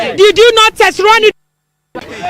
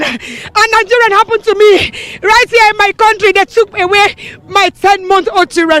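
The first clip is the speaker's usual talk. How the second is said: crying. Real, not acted. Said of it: "That's why I'm crying".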